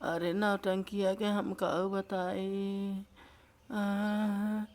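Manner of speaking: real tearful, drawn-out protest; slow, crying as she answers. Real, not acted. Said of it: "आप इतना रो रही हैं". (रुआँसी आवाज़ में)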